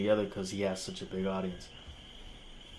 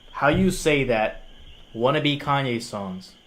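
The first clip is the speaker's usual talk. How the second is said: worked up; 3 semitones higher, 4 dB louder than usual. Real, not acted. Angry rant at the reviewer.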